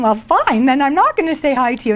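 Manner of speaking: quick, petulant "fine then" brush-off; huffy retort. Retold or imitated. Snubbed by the man at church, a huffy mock pout. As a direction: sound offended like a snubbed kid. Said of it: "went into the little ego thing".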